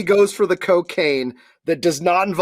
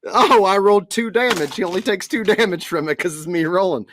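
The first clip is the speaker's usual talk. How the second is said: usual speaking voice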